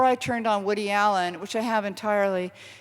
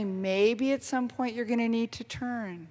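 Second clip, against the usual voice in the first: gently; 5 dB quieter than usual. Retold or imitated. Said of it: "he'd say very gently".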